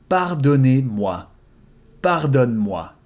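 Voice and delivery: "Pardonnez-moi" slowed, each syllable clear; slow repetition. Shown as a demonstration. Teacher repeating the formal form slowly, slow. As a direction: give it slowly so they can copy. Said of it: "Forgive me".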